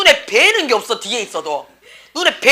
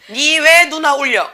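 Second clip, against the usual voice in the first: higher, slow, drawn-out accusing question; mock parental scolding; 4 semitones higher, 4 dB louder, slower than usual. Parent scolds boy over crying sister, mock stern. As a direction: imitate a parent telling a child off.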